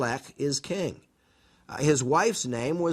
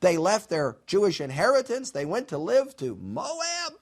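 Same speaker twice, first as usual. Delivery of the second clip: put-on Yiddish accent; 5 semitones higher than usual. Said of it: "if we're Old Testament Jewish people and we're reading this".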